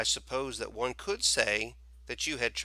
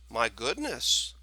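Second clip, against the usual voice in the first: mild exclamation; 4 dB louder, slower than usual. Acted. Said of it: "the storekeeper exclaimed".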